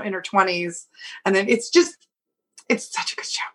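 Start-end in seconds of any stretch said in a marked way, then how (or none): 2.7-3.4 whispered gushing; whispering. Real, not acted. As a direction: whisper it like a secret. Gushing about a show.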